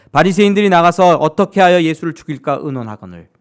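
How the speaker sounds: loud, steady Bible reading; scripture reading. Acted. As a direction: read the passage out to the congregation. Reads scripture aloud. (크고 또렷한 성경 낭독)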